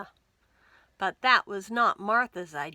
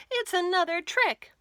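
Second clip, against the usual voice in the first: much higher, louder accusing cry; suspicious accusation; 10 semitones higher, 6 dB louder than usual. Acted. Martha accusing George of another trick. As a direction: call out the trick.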